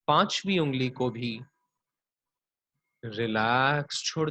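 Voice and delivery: unhurried body-scan meditation voice; guided yoga nidra. Acted. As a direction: draw out each "relax", lead them gently into rest.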